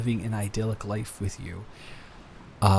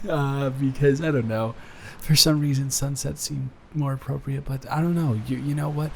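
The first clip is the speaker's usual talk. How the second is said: higher pitched, giddy and happy; elated; 5 semitones higher than usual. Real, not acted. Telling his new fiancée about the sunset plan, higher and giddy. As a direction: let the joy lift the voice. Just got engaged, elated.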